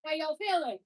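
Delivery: loud call over the music; calling out to the class. Real, not acted. Instructor checks in with the whole class, loud call. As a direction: hype the room with it.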